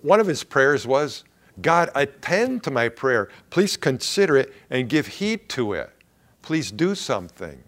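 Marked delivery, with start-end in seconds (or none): 1.6-7.6 desperate prayer. Retold or imitated. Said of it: "Can you see the desperation here".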